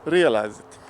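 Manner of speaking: put-on light, jokey Russian accent in broken English; casual Russian accent held through the story; mock Russian accent. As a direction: keep chatting in a playful Russian accent. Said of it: "Back to my regular voice".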